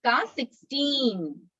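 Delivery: slow, stretched words settling at the end; slowly, for repeating. Shown as a demonstration. Teacher leads children repeating the memory verse, slowly. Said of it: "मैं धीरे धीरे बोलूंगी".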